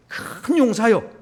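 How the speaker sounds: slow, high, ringing address; solemn calling. Acted. God greeting the frightened Gideon, slow and solemn. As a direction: call him out slowly like a herald. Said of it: "이렇게 부릅니다".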